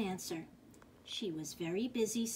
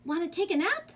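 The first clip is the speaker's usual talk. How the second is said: high, louder cat voice; cat's invitation; 8 semitones higher, 6 dB louder, faster than usual. A narrator's reading. Cat inviting the spider to nap, high voice. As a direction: pitch the question up like a cat. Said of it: "cried the cat".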